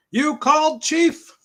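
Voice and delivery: eager cadet. Acted. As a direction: pop up keen and squeaky. Voices cadet in comic.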